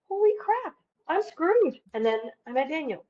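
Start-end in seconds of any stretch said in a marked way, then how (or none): 0.1-1.8 higher mock-panicked outburst; panicked realization. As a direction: imitate your past self suddenly realizing you're broke. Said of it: "It's like".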